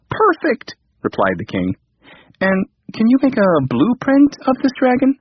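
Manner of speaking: high, eager king's voice; light up with hope; delighted king. A narrator's reading. Relieved king asks the computer for a blueprint, high and eager.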